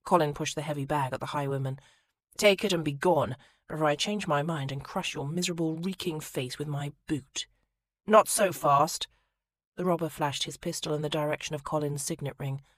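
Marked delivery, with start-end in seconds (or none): 2.4-7.5 threat. Acted. Colin threatening the highwayman. 8.0-9.1 highwayman. Acted. Highwayman stops Colin.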